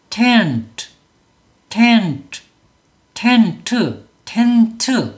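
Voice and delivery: 텐트 split as ten-teu, vowel sounded on 트; two-syllable Korean-style. Shown as a demonstration. Teacher shows the mistaken count, two-syllable 텐트. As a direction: say 텐트 in two separate beats. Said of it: "그래서 이 음절".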